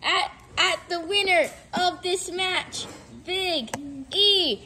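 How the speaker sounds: excited ringside wrestling commentary; play-by-play commentary. Acted. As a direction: call the match live, hyped up.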